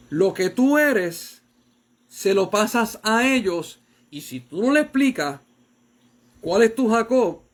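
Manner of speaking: fervent slow preaching; slow emphatic preaching. Real, not acted. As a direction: press the point on parents. Preaching to parents.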